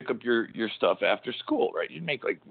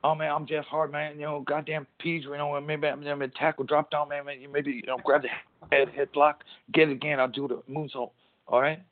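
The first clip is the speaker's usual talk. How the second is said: a rambling pro wrestler talking moves, pitched up; Jeff Hardy impression; 6 semitones higher than usual. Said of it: "that's how he talks".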